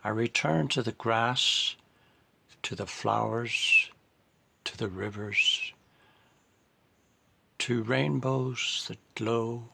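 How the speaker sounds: measured poetry recital with pauses between phrases; poem reading. Acted. Poet reading about coming home to Ireland, measured recital. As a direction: recite it phrase by phrase, letting each image settle.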